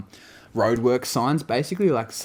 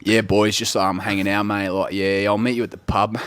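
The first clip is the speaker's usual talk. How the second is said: slightly lowered blokey put-on; mock cool-guy voice; 2 semitones lower than usual. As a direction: play it cool for the lads. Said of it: "cool mates that he thinks are cool".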